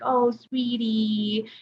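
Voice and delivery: drawn-out, lightly cooed condescension; a hint of syrupy, slowed elder speak. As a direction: mimic talking down sweetly to an older adult. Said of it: "an inflection in their voice".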